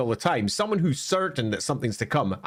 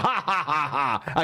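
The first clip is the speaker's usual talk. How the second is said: villain cackle. Retold or imitated. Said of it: "as they cackle into the night".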